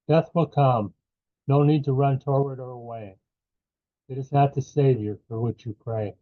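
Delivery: measured poetry recital in short phrases; poem reading. Acted. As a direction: read verse line by line, pausing after each. Reads his second poem aloud.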